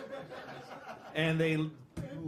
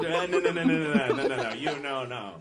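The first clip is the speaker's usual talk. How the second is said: firm refusal; 3 semitones lower, 4 dB louder than usual. Acted. Bouncer refusing gorilla entry.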